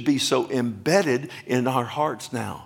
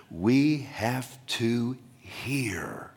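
whisper; much slower than usual. Real, not acted. Preacher drops to a whisper.

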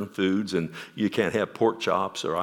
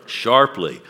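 emphatic answer; 7 dB louder than usual. Real, not acted. Preacher answers his own question.

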